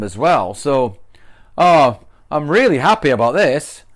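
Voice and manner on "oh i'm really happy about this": sarcastic. Shown as a demonstration. Teacher demos sarcasm about something bad. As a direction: say it like you mean the opposite. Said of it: "a bit of sarcasm as well".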